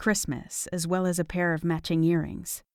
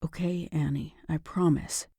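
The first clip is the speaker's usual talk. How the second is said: begrudging. Acted. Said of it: "His tone was still begrudging".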